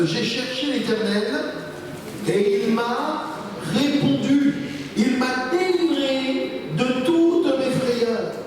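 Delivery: slow, drawn-out Scripture proclamation; solemn psalm reading. Acted. Preacher reading David's psalm aloud to the congregation, slow and solemn. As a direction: proclaim the psalm with long, sustained phrases.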